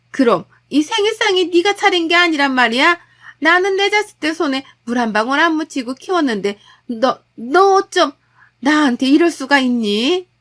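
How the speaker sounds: hurt fury at being fooled; outraged mother-in-law. Acted. Mother-in-law to her daughter-in-law after learning her son cooked, outraged.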